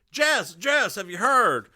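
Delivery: acted Southern-accented character voice; light Southern accent. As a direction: break the news with a hint of Southern accent. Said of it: "why does he have a Southern accent".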